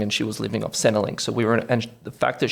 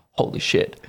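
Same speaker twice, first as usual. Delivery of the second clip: whispered awe. Retold or imitated. Jaw-dropping moment retold.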